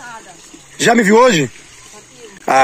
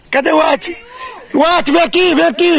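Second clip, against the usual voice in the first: calling a dog; 11 semitones higher than usual. Real, not acted. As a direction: call the dog over, bright.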